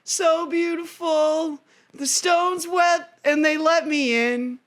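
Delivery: put-on high, earnest lover-boy voice; sing-song naive hero; mock Orpheus. Orpheus telling how he got in, high and dreamy. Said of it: "He goes".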